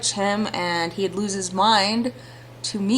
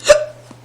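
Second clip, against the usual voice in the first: sharp sudden hiccup; loud hiccup; 8 dB louder than usual. Real, not acted. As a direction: hiccup mid-reading. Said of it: "I have the hiccups".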